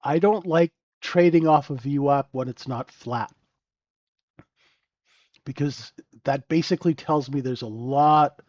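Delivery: ordinary talk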